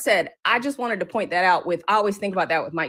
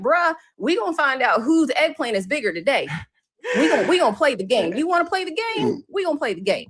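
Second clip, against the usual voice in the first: higher, taunting challenge to rival men; challenging retort; 6 semitones higher than usual. Retold or imitated. Businesswoman taunting men who misspell her name, challenging. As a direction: throw down the gauntlet, mocking. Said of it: "And I'm like".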